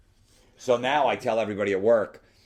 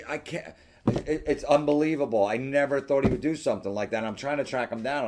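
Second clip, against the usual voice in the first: higher-pitched, amazed mimicry; imitating excited woman; 6 semitones higher than usual. Woman marvelling at her ex to the admirer, mock excited. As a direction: gush in mock disbelief as her.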